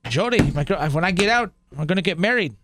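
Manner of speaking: lightly imitated Wisconsin accent. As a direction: mimic the documentary guy's Canadian-sounding Wisconsin accent. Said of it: "this Canadian accent up there".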